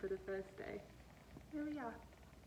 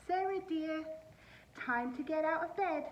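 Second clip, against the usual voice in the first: raised, sing-song call up the stairs; father's wake-up call; 7 semitones higher, 3 dB louder than usual. Acted. Dad calling his daughter awake, lightly voiced. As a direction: call her gently out of bed.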